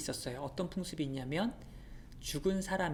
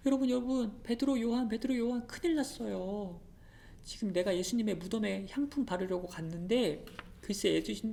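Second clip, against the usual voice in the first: urgent calling; 5 semitones higher than usual. Acted. Mary running to Peter and John, urgent alarmed calling. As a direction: burst in crying for Peter and John.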